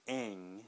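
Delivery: "ang" alone, soft, flat A into ng; isolated sound. Shown as a demonstration. Teacher isolates "ang" softly for learners. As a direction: say "ang" by itself, nasal ng ending. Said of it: "We start with the angry sound".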